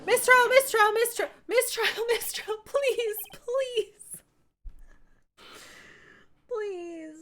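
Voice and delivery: high, giggling pleading; laughing plea. Real, not acted. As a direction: beg while cracking up.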